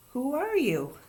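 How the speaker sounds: put-on high, emphatic child's question; demanding child. A narrator's reading. Ramona asking Davy at last, demanding child.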